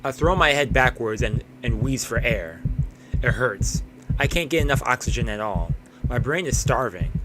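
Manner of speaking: plain, even read of the collapse; lightly acted exhausted narrator; story narration. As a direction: narrate the struggle steadily. Reads the collapse in the alley.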